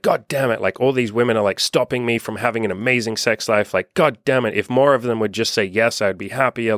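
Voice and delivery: mock annoyed rant. Young man griping to himself about flaky women, mildly annoyed. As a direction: grumble like a frustrated guy who got flaked on. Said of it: "I'd get annoyed".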